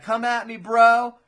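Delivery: high, loud play-acted taunt; hammed-up fighter goading a rival; mock challenge. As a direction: call out a cocky dare, building on the last word. Acted challenge between fighting characters.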